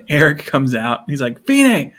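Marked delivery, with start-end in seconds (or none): 1.4-1.9 high, loud excited call of a name. Retold or imitated. Eric calling out to his teacher, calling out. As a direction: imitate a delighted holler.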